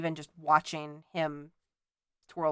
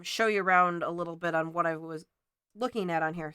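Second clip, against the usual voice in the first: talking through hiccups; suppressing hiccups. Real, not acted. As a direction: hold back the hiccups while talking. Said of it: "Sorry, I have the hiccups".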